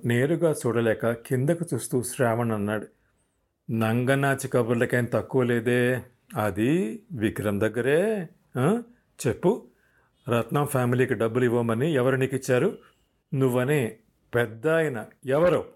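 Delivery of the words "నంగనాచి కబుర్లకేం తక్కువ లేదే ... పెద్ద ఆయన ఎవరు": demanding firmly. Acted. Officer presses Shravan in interrogation, mildly stern demand. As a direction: lean on him, a touch of force. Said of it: "గట్టిగా అడిగాడు".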